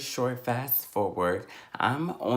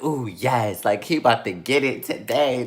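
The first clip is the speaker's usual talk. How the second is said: gleeful; 4 dB louder than usual. Retold or imitated. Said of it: "I'm so happy".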